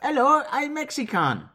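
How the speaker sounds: high, lightly voiced mock Mexican accent. Doing a Mexican voice on the co-host's request. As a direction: put on a cheesy Mexican voice.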